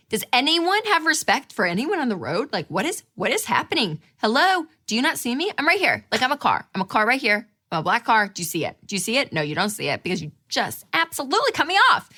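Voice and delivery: indignant road-rage rant with swooping pitch; exasperated mock outrage; acted anger. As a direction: rail at the other driver, hammed-up.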